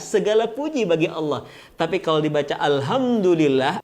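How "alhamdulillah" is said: "alhamdulillah" with a plain soft h in "ham"; wrong soft H. Shown as a demonstration. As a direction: say "alhamdulillah" with an ordinary h, not the raspy pharyngeal one. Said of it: "alhamdu itu kematian".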